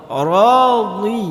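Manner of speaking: Radi with the dhad pressed from the tongue side; teacher showing dhad; dhad letter. Shown as a demonstration. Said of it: "Huruf dhad ini dari mana keluarnya".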